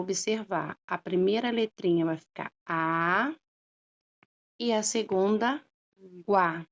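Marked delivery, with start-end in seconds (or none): 0.9-1.0 "A" held long as a lone syllable. Shown as a demonstration. Teacher splitting água for pupils, "A" sounded out slowly. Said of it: "Quando eu vou separar". 6.3-6.6 "guá" as a separate syllable after a pause. Shown as a demonstration. Teacher splitting água for pupils, "guá" sounded out separately. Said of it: "Quando eu vou separar".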